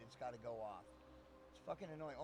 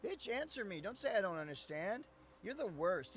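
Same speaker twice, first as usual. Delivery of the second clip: mock exasperated yell; 3 semitones higher, 3 dB louder than usual. Yelling at Siri.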